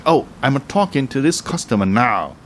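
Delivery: mildly annoyed imitation of scolding an interrupter; a bit angry. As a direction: act a touch indignant. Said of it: "people can get a bit angry".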